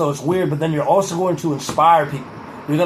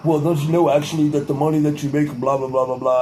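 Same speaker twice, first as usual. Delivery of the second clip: condescending know-it-all voice; 4 semitones lower than usual. Retold or imitated. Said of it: "talking in this voice of like".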